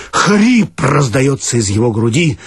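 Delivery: usual speaking voice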